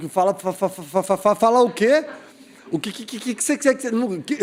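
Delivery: imitated panicked stammer on repeated syllables; stuttering. Boy pressed to speak in tongues, stuttering. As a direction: get stuck on each first syllable, over and over. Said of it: "eu comecei a gague-, gague-, gaguejar".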